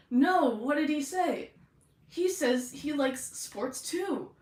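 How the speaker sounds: high, loud, slow bro voices; supportive tough bros. Acted. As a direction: savour each word with hammed-up bro earnestness. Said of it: "really supportive of each other".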